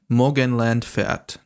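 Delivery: slow careful read of Morgenland Fährt; guessed German title. Shown as a demonstration. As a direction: spell out Morgenland Fährt as best you can, slowly. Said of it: "That's my best, the best I can do".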